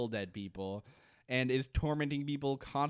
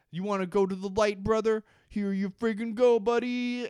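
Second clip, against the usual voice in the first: mock taunting brother; 8 semitones higher, 5 dB louder than usual. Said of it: "and says".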